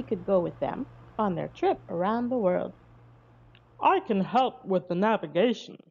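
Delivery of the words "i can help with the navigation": sea captain. A narrator's reading. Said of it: "he said".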